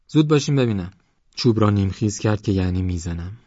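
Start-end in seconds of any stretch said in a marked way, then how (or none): 0.1-0.9 high, loud hurry-up; mildly threatening command to get moving; impatient order. Acted. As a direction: push them along, voice raised. Mock threat to hurry them.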